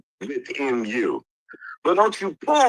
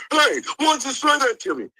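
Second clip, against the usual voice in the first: higher pitched, mocking whine; mock whining; 10 semitones higher than usual. Mocking the friend who came up here complaining, in a higher whiny voice. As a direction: imitate a grown man complaining like a child. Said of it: "your bitch ass come up here".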